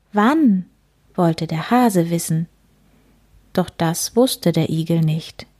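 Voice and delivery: put-on gentle read-aloud for children; story reading. A narrator's reading. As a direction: read it like a bedtime picture book. Reads picture book aloud.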